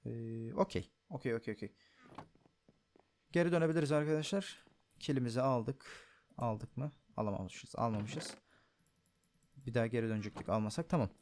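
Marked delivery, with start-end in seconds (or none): 3.3-11.1 hoarse voice. Real, not acted. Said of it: "sesim kısık geliyorsa gerçekten çok yorgunum".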